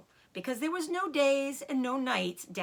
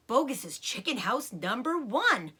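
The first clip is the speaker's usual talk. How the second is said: excited cry; 3 semitones higher than usual. Acted. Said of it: "cried Mister Fox".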